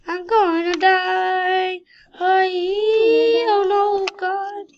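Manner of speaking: loud, high, slow panicked yell; hammed-up terror; mock panic. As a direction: scream like you're doomed. Character falls, panicked.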